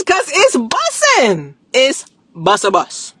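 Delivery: drawn out slow bussin'; slow hype. Real, not acted. Creator hyping the strawberry flavor, slow and drawn out. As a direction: savour the slang.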